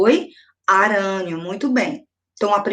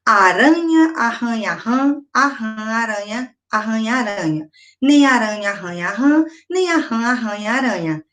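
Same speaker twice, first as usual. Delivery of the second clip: tongue twister recital. Shown as a demonstration. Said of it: "Se você falar bem rápido".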